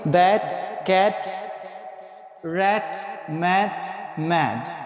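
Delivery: "बैट, कैट, रैट, मैट, मैड" with open "ऐ"; word-by-word list, each with the open A of English bat; short A vowel. Shown as a demonstration. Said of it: "ऐ पढ़ेंगे".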